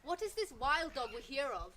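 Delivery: loud, commanding call to a gathering; proclaiming. A narrator's reading. Wild dog addresses the savannah animals, proclaiming. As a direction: call out grandly to all the animals.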